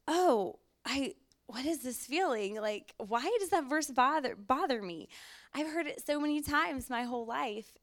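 high, surprised self-questioning; startled inner thought. Retold or imitated. Woman recalling the verse that pierced her heart, startled. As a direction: sound caught off guard by your own feeling.

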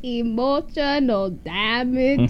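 very slow mock Asian accent; amused, exaggerated Asian accent; Asian accent attempt. Shown as a demonstration. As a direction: draw out the meme in an Asian accent. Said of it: "the TikTok thing".

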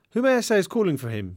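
lightly posh receptionist, pitch lifting on the question; posh accent. A narrator's reading. Receptionist screening a visitor at the desk, lightly posh accent. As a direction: put on a slightly posh accent. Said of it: "she said in a posh accent".

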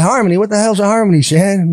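baffled. Retold or imitated. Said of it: "I'm like".

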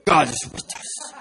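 mock solemn reassurance to impress her; man of God. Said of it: "Trying to sound like a man of God".

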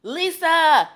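bright, overexcited "Lisa!" read from a text; fake excited text voice. Reading out a gushing text from a client, overexcited. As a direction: read the name like a text full of exclamation points. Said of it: "And she's like".

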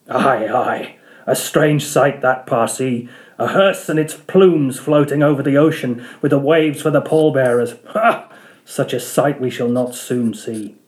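a hint of scornful old captain; Ahab, scoffing. Ahab mocking the Parsee's prophecy, scornful.

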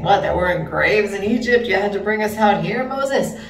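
mild mock kvetching; Jackie Mason. Teacher quoting the complainers at the sea, mock grumble. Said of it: "almost hear it in Jackie Mason's voice".

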